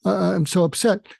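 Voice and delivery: lightly put-on wail of upset; mock crying. Showing what his crying was not like, mock crying. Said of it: "it wasn't like, "Boo-hoo".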